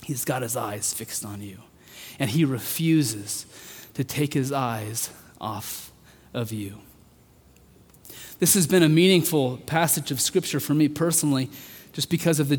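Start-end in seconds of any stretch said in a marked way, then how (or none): 0.0-6.8 softened preacher voice, almost hushed; softly reassuring. Acted. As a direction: let it land gently for the men. Quiet close of the point.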